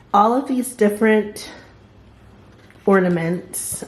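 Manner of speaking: talking while chewing gum. Real, not acted. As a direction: say it with gum in mouth. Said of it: "excuse my gum wrapper".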